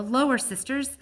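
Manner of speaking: loud urging call; loud command. Acted. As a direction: urge the sisters on loudly. Akelo commanding elephants.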